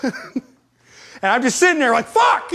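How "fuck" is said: very high exasperated yelp; frustrated shout. Retold or imitated. Man left sitting after the argument, frustrated shout. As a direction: yell one curse in frustration. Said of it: "I start screaming around".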